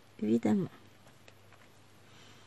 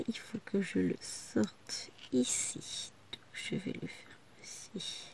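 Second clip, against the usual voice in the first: muttering; 8 dB quieter, slower than usual. Real, not acted. Muttering while concentrating.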